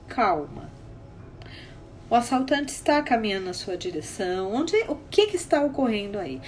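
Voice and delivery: low, softened reassurance; steady a panicked caller; acted therapist's calm voice; retold calming. Soothing a panicked crying client.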